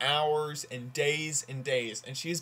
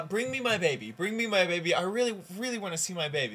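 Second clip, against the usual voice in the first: higher, insistent mock plea; lightly hammed-up urgent demand; acted pleading; 4 semitones higher, faster than usual. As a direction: play a mother begging, quickening at the end. Mother pleads with doctor in joke.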